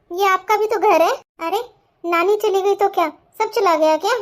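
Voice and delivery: put-on high, loud protest of a hurt child; indignant little girl. Girl to her mother about the aunt, indignant and loud. Child angry at aunt's insult.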